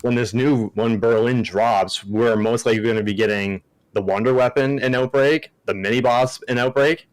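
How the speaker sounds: lisping around a mint; mint in mouth. Real, not acted. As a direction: talk with a mint in your mouth. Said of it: "Sorry, I have a mint in my mouth. That's why I'm lisping".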